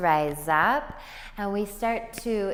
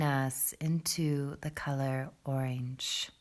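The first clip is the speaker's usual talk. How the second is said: guided meditation; 5 semitones lower, 5 dB quieter than usual. Acted. Yoga teacher leading students into breath below the belly, guided meditation. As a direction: ease them unhurriedly into the breath, pitched low.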